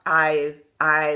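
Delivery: Australian accent. Shown as a demonstration. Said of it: "like Australian".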